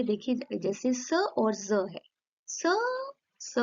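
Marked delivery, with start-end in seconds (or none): 2.5-3.5 isolated voiceless स sound; voiceless s demo. Shown as a demonstration. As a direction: hiss स with no voice, slowly. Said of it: "कोई vibration नहीं है".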